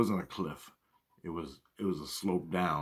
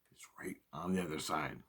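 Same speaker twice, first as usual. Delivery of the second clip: whisper; 4 semitones lower, 10 dB quieter than usual. Retold or imitated. Sneaking up on a bear.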